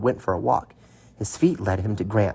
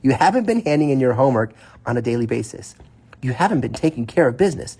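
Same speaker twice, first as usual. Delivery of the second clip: redo; faster than usual. Acted. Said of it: "say that again".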